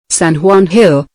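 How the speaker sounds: San Juan Hill with both words weighted equally; evenly stressed San Juan Hill. Shown as a demonstration. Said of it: "emphasis on both words".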